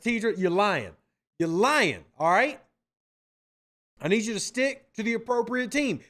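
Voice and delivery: mock scolding. Real, not acted. Host scolds Lions fan in chat.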